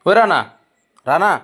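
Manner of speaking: high, loud sing-song call; pet talk. Real, not acted. Owner croons the rabbit's name, high and loud.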